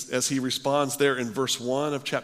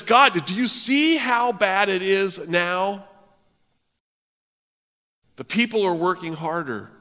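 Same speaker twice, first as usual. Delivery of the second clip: higher, louder whining protest; temper tantrum; 6 semitones higher, 5 dB louder than usual. Retold or imitated. Moses complaining to God in a mock tantrum. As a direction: plead your grievance like a sulking child. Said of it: "throwing this temper tantrum".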